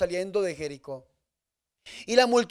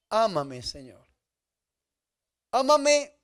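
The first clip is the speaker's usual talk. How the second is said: tender prayer; slower than usual. Acted. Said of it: "Es decirle".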